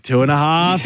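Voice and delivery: stalling parent countdown. Retold or imitated. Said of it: "your parents started to go like".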